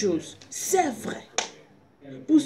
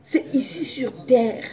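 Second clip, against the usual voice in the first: whisper; slower than usual. Acted. Dropped to whisper mid-sermon.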